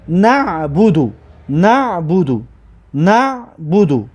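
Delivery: slow "نه بودو", repeated; syllables joined up. Shown as a demonstration. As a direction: read back slowly, "بودو" run together. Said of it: "این رو علمی طور کرده می نویسید". (خواندن شمرده و تکراری)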